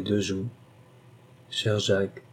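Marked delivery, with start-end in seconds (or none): 1.5-2.2 soft, sighed endearment; understated, affectionate and hushed; tender sigh. A narrator's reading. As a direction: sigh the name fondly. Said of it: "soupira-t-elle".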